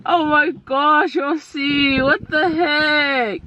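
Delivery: slow, drawn-out disbelief; shocked. Real, not acted. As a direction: stretch it out in shock. Shocked at child's behaviour.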